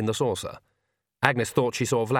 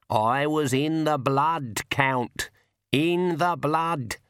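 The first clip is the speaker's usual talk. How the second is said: slow menacing reveal; 4 semitones higher, much slower than usual. Acted.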